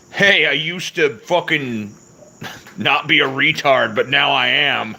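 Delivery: high, loud mocking whine; mocking friend voice. Streamer mimics chatter's trolling friend, loud mocking high whine.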